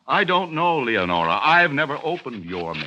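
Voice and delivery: sarcastic. Acted. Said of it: "you need me so sarcastic".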